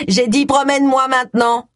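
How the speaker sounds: high, insistent growly creature; growling toy dog. A narrator's reading. Toy dog left standing demands a walk, growling. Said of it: "grogna le chien".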